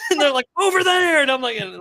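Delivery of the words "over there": very high, loud imitated call; urgent shout. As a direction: holler it across the boat. Retold shout pointing out fish.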